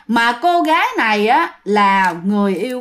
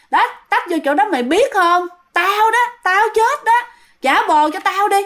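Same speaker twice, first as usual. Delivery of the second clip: very high ghost woman, acted out; possessed female voice; 8 semitones higher than usual. Ghost woman reveals she died there, high female voice. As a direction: imitate a dead woman insisting, pitched right up. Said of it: "mà khi mà bạn nói là giọng phụ nữ".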